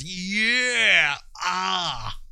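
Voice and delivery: high, drawn-out gleeful cheer; mock excitement. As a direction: play a hooked user cheering in a high voice. Acts out the addicted user's excitement.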